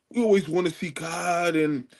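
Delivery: a light mocking imitation of another debater; Sarah Sutton Seti. Likening the opponent to someone else, lightly mimicking. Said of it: "you know who you sound like".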